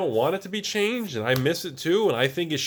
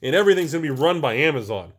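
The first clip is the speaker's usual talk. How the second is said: a mock-grateful hammed-up voice, louder; mock relieved voice; 5 dB louder than usual. Mocking imagined fans who cheer stores closing. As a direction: play a fake happy customer, lightly. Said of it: "No one's out there going".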